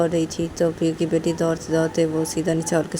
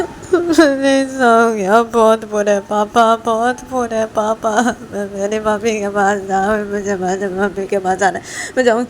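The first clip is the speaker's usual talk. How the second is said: put-on high, tearful little girl begging; high whining crying kid; crying child; 4 semitones higher, 11 dB louder than usual. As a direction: sob out for mummy. Child cries, wants mother.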